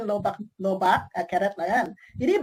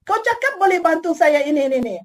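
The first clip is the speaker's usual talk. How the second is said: mock angry customer; 3 semitones higher than usual. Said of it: "dia marah upline".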